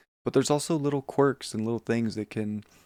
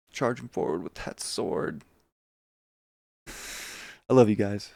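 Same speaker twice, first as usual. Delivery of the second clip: wired; slower than usual. Real, not acted. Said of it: "Sorry, I'm a little wired".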